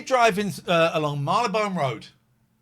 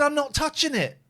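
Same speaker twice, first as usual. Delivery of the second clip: imitating the van driver; 11 semitones higher, 4 dB louder than usual. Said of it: "He said".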